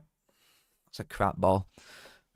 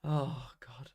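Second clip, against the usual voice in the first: whisper; 8 dB quieter than usual. Real, not acted. Reacting under his breath.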